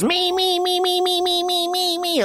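very high squeaky chant of me; squeaky excited kid begging; eager kid voice. Pretend.

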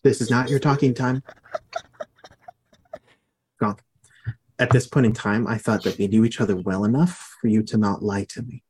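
low, measured menace; threatening accent. Acted. Interrogator scolds lying prisoner Gronk, low threatening accent. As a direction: keep it low and controlled, like an interrogator. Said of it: "this is my threatening accent".

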